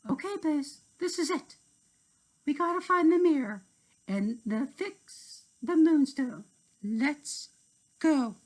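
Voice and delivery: high, eager fairy voice; rally your friend, high and bright; Tink's voice. Acted. Tink urging Blaze on, high eager voice.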